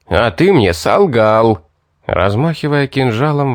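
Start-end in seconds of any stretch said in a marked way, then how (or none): 0.1-1.6 yelling. Acted. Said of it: "возопил Йорган".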